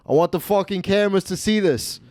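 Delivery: mock-insistent, demanding witnesses; Stefano. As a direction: imitate a gambler playing to the cameras. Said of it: "point to the camera and be like".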